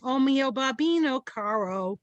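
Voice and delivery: Brooklyn-accented Italian. Shown as a demonstration. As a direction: say the aria title in thick Brooklynese. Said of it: "in a Brooklyn accent".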